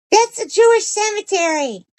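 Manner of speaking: very high, squeaky dog voice; talking dog. Acted. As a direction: speak as the dog in a tiny high-pitched voice. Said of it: "And he goes".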